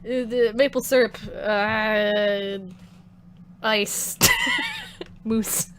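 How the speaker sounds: badly faked Canadian, halting word by word; mock-Canadian list breaking into giggles; bad Canadian accent. Shown as a demonstration. Streamer apologizing to Canadians in chat, bad Canadian accent. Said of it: "I can't do a Canadian accent".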